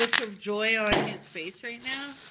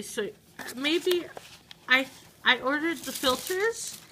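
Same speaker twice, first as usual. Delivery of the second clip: ordinary delivery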